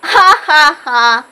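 slow, spelled-out ha ha ha; aunt laughing. Retold or imitated. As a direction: laugh it out slowly. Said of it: "My aunt laughed".

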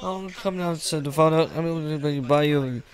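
soft, gentle coaxing; soothing father. Acted. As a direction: hush it down to comfort a child. Father soothes the crying child.

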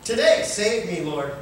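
high, loud pleading cry. Retold or imitated. Preacher voicing his own cry to Jesus, loud plea. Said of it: "continue to cry out".

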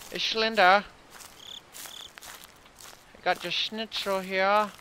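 hammed-up German accent; mock German. Player bargaining with Slender over schnitzel, mock German. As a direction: put on a playful German accent. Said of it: "So Marge is now German".

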